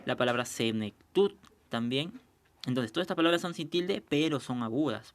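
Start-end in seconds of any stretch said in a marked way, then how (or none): 0.4-1.3 senectud spaced out, landing firmly on tud; stress on final syllable. Shown as a demonstration. Teacher adding another example, stress on the end of senectud. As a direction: say senectud carefully, leaning on the last syllable tud. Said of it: "dónde está la mayor fuerza de voz".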